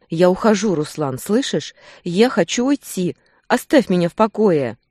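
tearful woman shouting at her mate; yelling to leave. A narrator's reading. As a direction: push him away with your voice. Woman pulling away, yelling.

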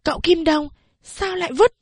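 put-on a sulky kid objecting; discontented. A narrator's reading. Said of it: "giọng bất mãn".

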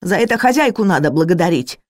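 fast, shrill-pitched shriek; shrieking retort. Acted. Cook blames the mistress, fast shrieking retort. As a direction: squeal it out in a rush. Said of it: "взвизгнула Бернис".

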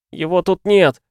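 put-on high, loud anguished boy; wailing. A narrator's reading. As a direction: howl it back in desperation. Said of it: "взвыл Кути". (отчаянный вопль мальчика)

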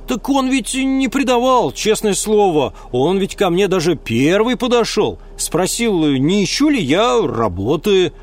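put-on country boy protesting; earnest young lad. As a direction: swear he's honest. Ulm defends contact.

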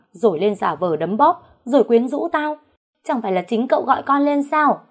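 high, loud, furious protest; heated accusation. Acted. Maid fighting with the young master, furious high protest. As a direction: throw the blame back at him. Servant quarrels with her lover.

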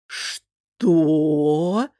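loud shocked roar. Acted. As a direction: bellow in disbelief. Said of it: "дружно взревели братья". (взревев от потрясения)

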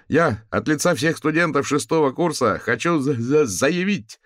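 high, loud, nervous stammer; ringing voice tripping over its words. A narrator's reading. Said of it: "прозвенел над площадью голос".

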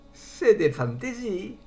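still laughing. Acted. Concierge catching her breath after laughing, slow and high. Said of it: "La concierge riait de tout son cœur".

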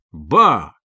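Ба! burst out loud, sudden; startled realisation, called out; surprised shout. A narrator's reading. Koch suddenly realises the door is bolted, surprised shout. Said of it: "закричал удивившийся Кох".

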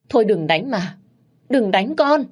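a touch of tearful begging, rising high on con; crying plea. Acted. Mother begging the father to stop beating her, tearful. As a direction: beg him to stop, close to tears. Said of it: "Má tôi cứ khóc và van xin".

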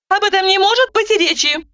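high, brisk interrupting voice; Roza cutting in. A narrator's reading. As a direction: cut her off, businesslike. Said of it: "расстроила меня подруга".

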